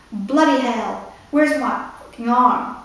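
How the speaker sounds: slow, mock British accent, shouted lightly; hint of a British officer, retold yelling. Commander searching for his arm, in a light British accent. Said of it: "yelling in his strong British accent".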